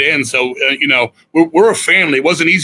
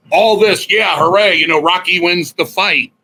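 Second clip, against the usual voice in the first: higher-pitched retold hooray; mock cheer; 4 semitones higher than usual. Bandmate recalls the triumph before tragedy, mock cheering. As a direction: act out a brief celebration. Retelling a short-lived celebration.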